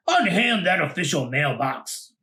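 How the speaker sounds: lightly voiced stern mailman; mailman's command. Mailman ordering the monsters off the mailbox, mock stern. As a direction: order them off the mailbox, officially. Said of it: "he cried".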